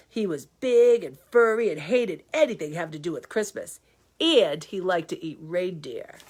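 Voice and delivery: lively storybook reading; story narration. Acted. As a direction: read it like a bedtime story. Reads the story aloud.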